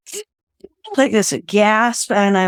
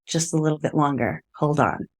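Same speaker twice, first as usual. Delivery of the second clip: softer, murmured self-reassurance; softer, tired inner mantra; quiet mantra; 4 semitones lower, 6 dB quieter than usual. Retold or imitated. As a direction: say it softly to yourself to keep going. Repeating her inner survival mantra.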